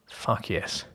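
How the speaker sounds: breathy whispered yes; breathless whisper. Acted. Breathless reply at climax.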